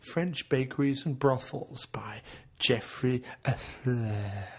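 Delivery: slow, drawn-out book announcement; mock audiobook announcer. Co-host announcing a spoof pastry memoir, slow mock audiobook reading. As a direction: read the title out slowly, tailing into a whisper.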